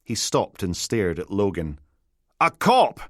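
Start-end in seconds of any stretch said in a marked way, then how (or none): 2.4-3.0 horrified yelp. Acted. Biohazard repeats in horror.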